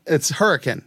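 hurricane said HUR-uh-kun, clipped last syllable; local pronunciation. Shown as a demonstration. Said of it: "That's how you pronounce it".

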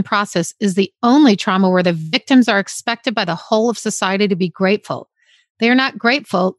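measured reading of a book passage; reading a book paragraph to her co-host; reading aloud. Real, not acted. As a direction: read the passage out steadily. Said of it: "This was the very last paragraph".

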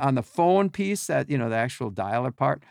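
ordinary delivery

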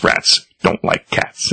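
slow creepy villain whisper. Retold or imitated. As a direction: hiss it slowly like a villain. Villain Ratcatcher voiced in comic.

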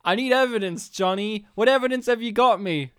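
lightly voiced chief, pressing for answers; mildly hammed-up boss's demand; a touch of mock impatience; film boss demanding.

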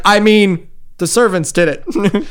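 a doll blaming the servants with a grin; mock-innocent haunted doll; the doll's excuse. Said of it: "he's like".

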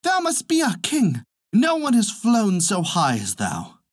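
high-pitched acclaiming cry. A narrator's reading. Birds beneath hailing the eagle, high cry. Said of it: "at once cried to him".

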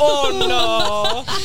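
high, drawn-out "Oh, no"; exaggerated Wisconsin voice. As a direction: stretch the "Oh" like a Midwesterner. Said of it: "That's the".

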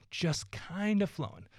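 lifted up, eased and airy. Shown as a demonstration. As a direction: float the words up gently.

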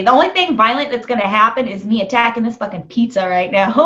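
laughing through a joke. Real, not acted. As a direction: joke while cracking up. Jokes while laughing.

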